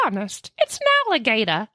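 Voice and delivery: put-on fast, a touch of an old-time New York kid; old-timey boy. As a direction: blurt it out like a nineteen-thirties street kid. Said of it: "that's why he sounded that way".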